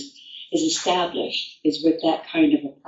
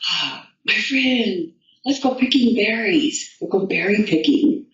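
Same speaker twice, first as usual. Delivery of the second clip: sweet Frog invitation; 5 semitones higher than usual. Acted. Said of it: "Frog comes along and says".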